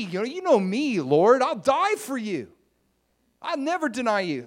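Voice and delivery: loud, high, eager protest of loyalty; boastful Peter. Acted. Peter boasting to Jesus, loud and high. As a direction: overplay Peter's bragging devotion.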